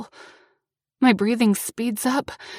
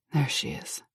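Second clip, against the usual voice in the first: soft smile; 7 semitones lower, 7 dB quieter than usual. Acted. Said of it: "with a soft smile".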